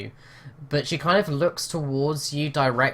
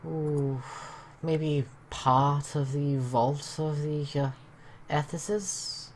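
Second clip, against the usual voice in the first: put-on Welsh accent. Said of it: "really bad Welsh accent".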